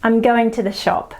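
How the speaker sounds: "I'm going to the shop" squashed together; tone unit. Shown as a demonstration. Teacher showing how Aussies squash the words. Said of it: "So we say".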